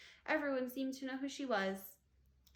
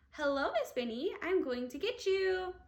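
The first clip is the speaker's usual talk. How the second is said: loud, high mock-threatening witch; girl scaring her teacher in a mask; muffled witch shout; 6 semitones higher, 5 dB louder than usual. A narrator's reading. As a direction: growl a playful threat. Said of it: "shouted in her muffled voice".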